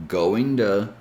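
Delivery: "going to" with the T turned to a D sound; flapped going to. Shown as a demonstration. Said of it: "So you can say".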